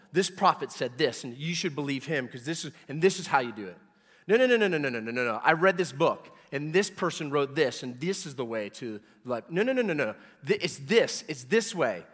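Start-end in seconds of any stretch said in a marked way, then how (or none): 4.3-5.4 shouted no. Real, not acted. Preacher to congregation, dismissing other teachers, shouted no. 9.5-10.2 higher, louder string of no's; emphatic no. Real, not acted. Preacher to congregation, rejecting false ways, emphatic no.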